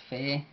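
Fe-a-ri sounded out in separate syllables; explosive T. Shown as a demonstration. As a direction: break up Fe-a-ri with a popped T. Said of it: "T explosiva A".

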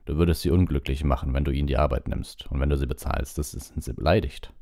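a hint of a stubborn Hagrid explaining; lightly voiced Hagrid, earnest. Hagrid explains house-elves to Hermine, earnest.

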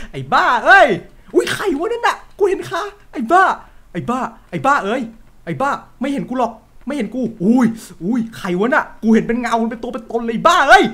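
high, loud frightened cries; scared yelling. Real, not acted. Streamer spooked by a ghost, frightened yells. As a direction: yelp at the shadow you just saw.

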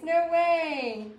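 surprised, drawn-out exclamation; emphatic disbelief. Real, not acted. Host reacting to a viewer having teenage grandbabies, emphatic disbelief. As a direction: react as if you truly can't believe it. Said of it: "I say like I mean it".

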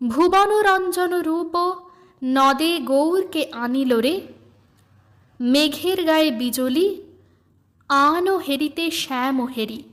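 slow, lilting recitation of a devotional song; recited song verse. Acted. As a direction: read the hymn as gentle verse. Song lyrics recited by reader.

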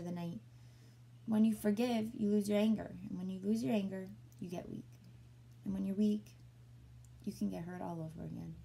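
steady, expressive read-aloud voice; story narration. A narrator's reading. A reader voicing a dog narrator. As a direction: read the dog's story to young listeners.

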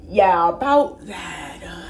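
slow, drawn-out hedge; imitating a sheepish, caught-out kid; awkward stalling. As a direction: stall awkwardly, stretching the words. Kids caught out by their moms.

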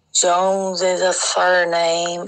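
put-on slow, slurring drunk manager, words smeared together; drunken slurred speech. Narrator imitates the drunk manager mumbling, slow and slurred. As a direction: mimic a man too drunk to talk, dragging it out. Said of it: "It was, like, slurred speech".

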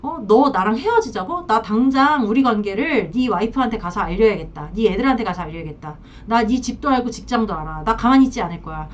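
imitating a mistress making threats; mildly heated mock threat, rising on the challenges; acted threatening. Mistress threatens the married man who wants to break up, mock-threatening. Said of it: "또 여자들이 이렇게 협박을 해요".

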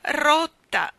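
loud, high doleful wail; lugubrious. A narrator's reading. The maid announcing her injury on the stairs, lugubrious. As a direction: lament it mournfully. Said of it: "rispose Ellen con aria lugubre".

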